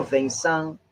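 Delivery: French pronunciation of Vincent, nasal vowels, silent final t; French accent. Shown as a demonstration. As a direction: say Vincent the French way, as "van-SAHN". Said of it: "pronouncing it with a French accent".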